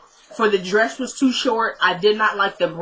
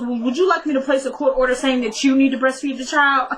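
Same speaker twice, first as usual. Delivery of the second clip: judge's sarcastic line cracking up mid-sentence; can't keep a straight face retelling it; laughing through the quote; 4 semitones higher than usual. Retold or imitated. Vlogger retelling judge's comeback, laughing.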